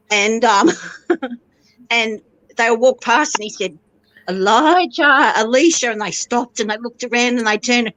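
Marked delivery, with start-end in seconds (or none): 4.3-5.9 calling out. Retold or imitated. Father calls out to his children.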